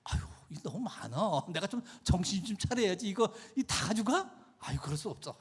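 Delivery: lightly acted fretting to oneself; torn, talking yourself out of giving; reluctant Ananias. Ananias arguing with himself over land money, lightly acted reluctance.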